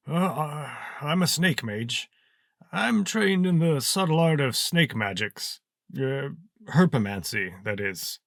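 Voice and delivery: put-on high-pitched, hesitant old snake mage; old wizard. Old wizard explaining his snake magic to fellow prisoners, high and hesitant.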